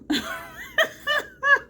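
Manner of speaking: squealing, high burst of laughter; high giggling fit; high-pitched laugh. Real, not acted. Laughing at own reaction.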